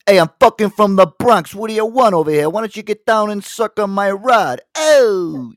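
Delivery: loud, high New York tough-guy comic; brash Bronx accent, shouted high and cocky; Andrew Dice Clay. Acted. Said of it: "I would do my Andrew Dice Clay".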